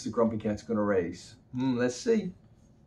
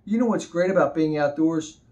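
butterfly voice; 4 semitones higher, 4 dB louder than usual. Acted. Butterfly talks to Grumpy Cat.

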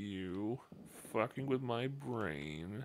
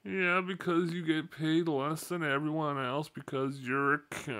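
loud; 3 semitones higher, 9 dB louder than usual. Acted. Loud crude joke.

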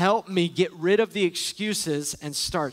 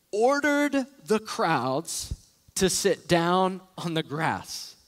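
slow reading; much slower than usual. Shown as a demonstration. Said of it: "read that again".

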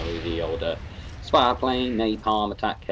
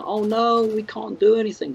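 high, loud whiny mock panic; mocking panicky Brit; 12 semitones higher, 4 dB louder than usual. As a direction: squeal it like a helpless worrier. Mocking the country's snow panic.

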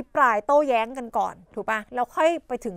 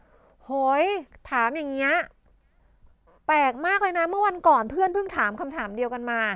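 amused exclamation; 3 semitones higher than usual. Shown as a demonstration. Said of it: "บางคนบอก".

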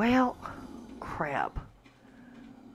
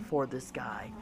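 soft breathy whisper; 5 semitones lower, 10 dB quieter than usual. Real, not acted. Player musing about the bear, hushed whisper. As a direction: drop to a whisper. Aside while planning kibble.

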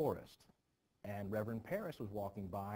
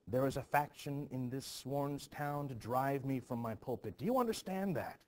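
insistent demand; 3 semitones higher, 5 dB louder than usual. Acted. Uncle demanding an answer from the girl.

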